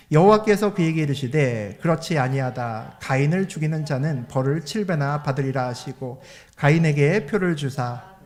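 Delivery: formal, slowed reading of scripture. Acted. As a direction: read the verse out deliberately to the congregation. Reads the Bible verse aloud.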